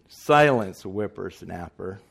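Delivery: loud booming snap; wizard shout. Retold or imitated. Wizard scolding Dorothy, loud and booming. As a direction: bark it like an angry wizard. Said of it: "The wizard".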